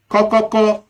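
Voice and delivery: high, even staccato knock imitation; knocking sound. Shown as a demonstration. Visitor checking if somebody is home, imitated knocking. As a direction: say it like knuckles on a door.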